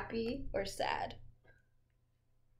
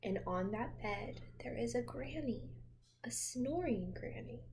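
put-on reading to children. A narrator's reading. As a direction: lull a child with a gentle read-aloud. Reading picture book to child.

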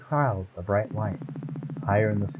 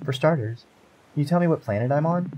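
curious heroine; 6 semitones higher than usual. Acted. Heroine voiced in story.

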